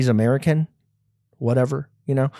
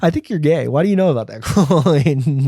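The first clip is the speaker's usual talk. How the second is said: laughing accusation. Retold or imitated. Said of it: "And you go".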